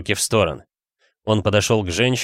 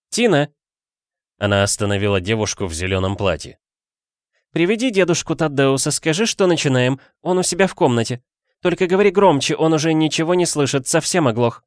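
calling out; 7 semitones higher than usual. A narrator's reading. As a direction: call the girl over and instruct her. Aunt calling and instructing girl.

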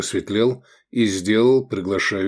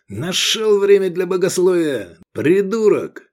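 high, louder annoyed outburst; exasperated scolding; 9 semitones higher, 5 dB louder than usual. A narrator's reading. Companion scolds the zealot for arguing theology, exasperated. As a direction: tell him off sharply, voice raised. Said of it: "зашипел Джуманиязов".

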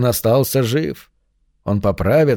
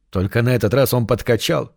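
ordinary delivery, nothing marked

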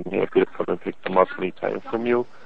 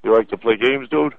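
angry sarcastic. Real, not acted. Caller realizes he's pranked.

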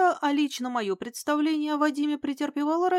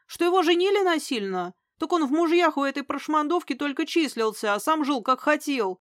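heated rant; 3 semitones higher, 4 dB louder than usual. Acted. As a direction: keep it raised and louder, still fuming. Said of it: "взорвался он". (горячо, возмущённо, на повышенных тонах)

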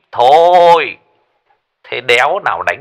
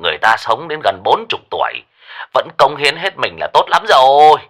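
fast, irritated rant; snapping; 3 semitones higher, faster than usual. Acted. Lão Lý snapping at Minh Hải, fast irritated rant. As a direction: snap at the dumb question. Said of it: "lão gắt".

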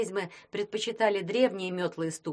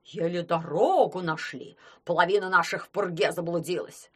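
complaining; 4 dB louder than usual. Acted. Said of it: "жаловались другие".

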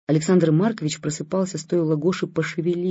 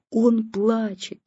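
world-ending dread; 6 semitones higher, much slower than usual. Acted. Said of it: "как будто сейчас обрушится мир".

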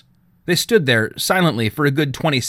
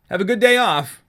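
raised, higher call across the room; calling after him; 10 semitones higher than usual. A narrator's reading. Trenton calling after his departing dad, raised and higher. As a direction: send it after him as he leaves. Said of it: "Trenton called after him".

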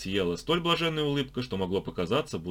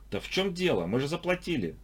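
high, exasperated protest; mildly irritated; 8 semitones higher than usual. A narrator's reading. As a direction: snap a little at the guard. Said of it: "слегка психанул Алик".

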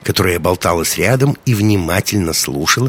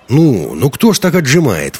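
indignant; 6 semitones higher, 4 dB louder than usual. A narrator's reading. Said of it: "возмутился Юки".

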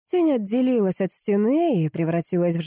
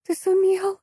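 much higher, breathed-out cry; breathless joy; 13 semitones higher, slower than usual. A narrator's reading. Wife exhales her joy to her husband. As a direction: gasp it out in relief. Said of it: "выдохнула Митца".

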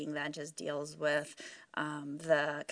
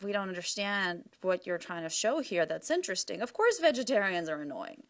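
mock annoyed reviewer; 8 semitones higher than usual. Reading out reviewers' complaints, mock indignant high voice. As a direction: act out a huffy meat-loving reviewer. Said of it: "some of the reviews we got were like".

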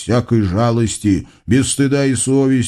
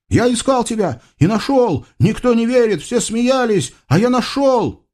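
высокий голос гордого юноши; скажи с гордостью, высоко; гордый юноша; 11 semitones higher than usual. Acted. Юноша гордится. (высокий гордый голос Юсуфа)

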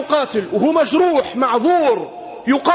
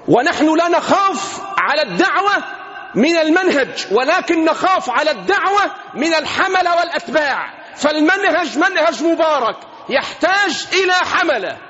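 raised preaching voice, pressing hard; preaching warning; 3 semitones higher than usual. Real, not acted. Preacher warning the congregation about lazy followers, forceful. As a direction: drive the warning home to the listeners.

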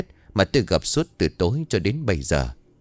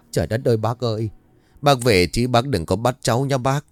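choked pleading. Acted. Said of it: "bằng một giọng nghẹn ngào có pha nước mắt".

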